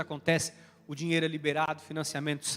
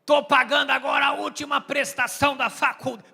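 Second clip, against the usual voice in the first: mock tough guy; 2 semitones higher than usual. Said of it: "estufa o peito, fala grosso".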